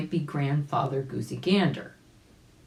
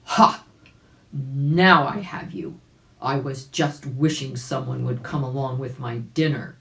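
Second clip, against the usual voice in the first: harsh cry; 3 semitones lower, 5 dB louder than usual. Acted. Hungry bear cries out harshly to trapped Uncle Wiggily. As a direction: bark it out like a hungry bear springing a trap. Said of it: "a harsh voice cried out".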